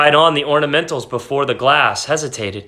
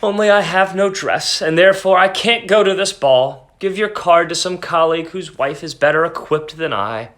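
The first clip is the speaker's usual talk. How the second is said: calm; 3 semitones higher than usual. Acted. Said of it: "replied with a calm voice".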